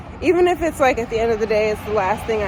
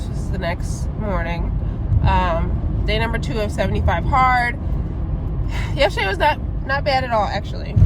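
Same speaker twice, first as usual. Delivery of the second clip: slight lisp with braces in. Real, not acted. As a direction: speak around braces, lisping. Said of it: "disclaimer, I have my braces in, if you can hear the lisp".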